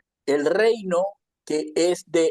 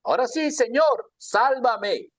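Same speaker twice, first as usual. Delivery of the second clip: high-pitched plea, only mildly desperate; acted cry for help; 5 semitones higher than usual. Peter sinking calls on the Lord to save him, crying out. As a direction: call out for rescue, lightly acted. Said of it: "empezó a dar voces diciendo".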